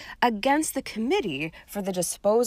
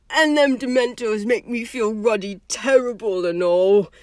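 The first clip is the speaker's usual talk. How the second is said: shuddering; 3 semitones higher, 5 dB louder than usual. A narrator's reading. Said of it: "with a sudden shudder".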